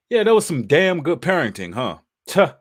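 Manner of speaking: dry sarcastic praise. Acted. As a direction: say it sarcastically, then scoff.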